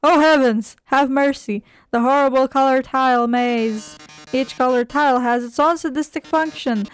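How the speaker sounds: lightly hammed-up horror, then explaining; theatrical game-show villain. Villain presents the deadly tile maze, mildly melodramatic. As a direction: feign dismay at your own trap.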